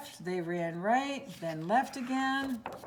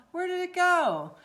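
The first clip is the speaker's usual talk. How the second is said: alarmed question; 9 semitones higher, 5 dB louder than usual. Acted. Dogs waking, fuzz gone.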